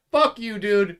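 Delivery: high, loud mock yell at the cop; angry yell. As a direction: shout it at the officer like the drunk girlfriend. Girlfriend keeps swearing at cop.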